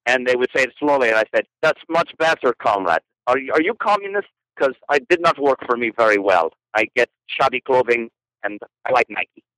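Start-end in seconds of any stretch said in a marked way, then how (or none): 1.6-9.4 put-on outrageous comic Russian accent. Photographer baffling museum donors with random lines in a Russian accent. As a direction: play a Russian comrade with a thick accent. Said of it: "talk in a Russian accent".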